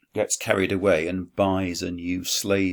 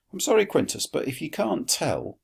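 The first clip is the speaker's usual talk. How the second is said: mock reproach; 6 semitones higher than usual. Teacher scolding Quintus in aside.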